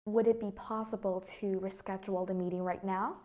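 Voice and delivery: yes-no question with a rise on "now"; rising intonation. Shown as a demonstration. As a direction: question lifting at the end on "now". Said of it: "your tone of voice just basically goes up".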